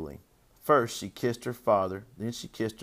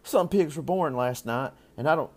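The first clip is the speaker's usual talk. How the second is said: put-on higher little-girl voice; puzzled child, pitched up; eight-year-old Fern; 6 semitones higher, 4 dB louder than usual. A narrator's reading. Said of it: "continued Fern, who was only eight".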